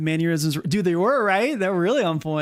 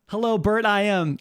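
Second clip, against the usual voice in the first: lightly hammed-up caller, higher; mock self-impersonation; 4 semitones higher than usual. Streamer imitates himself calling in, mock caller voice. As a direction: fumble a greeting in a mock voice. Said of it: "my impersonation of me".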